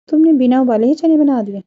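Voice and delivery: can't believe what she hears; shocked question. Acted. पूरा परिवार हैरान, दादी का सवाल. (हैरानी भरा सवाल, ऊँची और तेज़ आवाज़ में)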